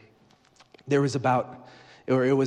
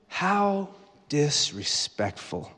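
indignant wife; 2 semitones higher, much slower than usual. Acted. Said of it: "What would Ben's wife say?".

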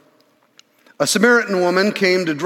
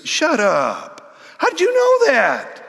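shocked disbelief; 9 semitones higher than usual. Acted. Woman stunned by Jesus' knowledge.

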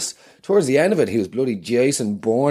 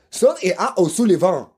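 intense, higher action-hero growl; Jason Bourne voice; 6 semitones higher than usual. Acted. Guest insisting he is Jason Bourne, intense action-hero voice. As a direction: play the brooding spy, dead serious. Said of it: "Matt, rein it".

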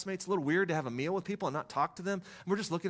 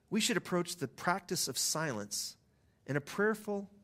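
slow, deliberate read-aloud; quotation reading. Acted. Pastor reading the congregation a passage on silence, deliberate reading. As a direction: read it slowly, phrase by phrase with pauses.

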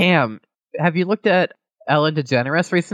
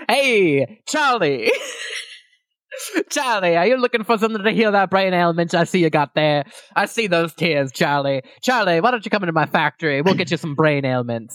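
snake oil salesman. Pretend. Snake oil pitch to Charlie.

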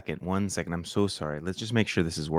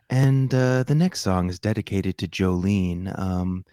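midnight radio DJ voice. Pretend. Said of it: "This is my midnight radio D J voice".

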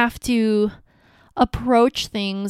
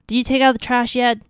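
fast, sharper repeat of the request; mock wife pressing him again; impatient nagging; 3 semitones higher, 3 dB louder, faster than usual. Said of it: "if we just say".

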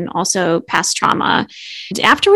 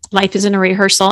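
gentle reminder; faster than usual. Shown as a demonstration. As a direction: say it gently, no pressure. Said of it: "you need to say it in a gentle way".

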